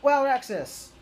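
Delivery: loud, high heroic battle cry; shouted transformation call. Retold or imitated. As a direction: yell it like a Ranger morphing. Reviewer does the morph call.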